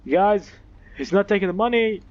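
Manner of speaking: high, loud frustrated outburst; exasperated yelling. Real, not acted. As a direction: yell at the game in disbelief. Frustrated at game.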